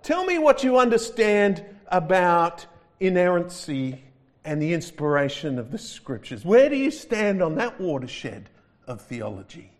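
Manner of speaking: high, loud, grand angel voice; angel examiner. Retold or imitated. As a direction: boom out the questions like a pompous examiner. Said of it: "He says".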